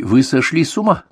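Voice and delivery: outraged. A narrator's reading. Young man outraged at refusal.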